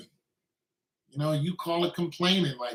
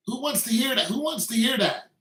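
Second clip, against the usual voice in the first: exasperated; 6 semitones higher than usual. Real, not acted. Ranting about being told off.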